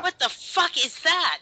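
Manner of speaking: high, loud, drawn-out mock bafflement; retold shocked disbelief. Recalling first sight of Roger, exaggerated shock. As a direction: act out slow, high-pitched disbelief.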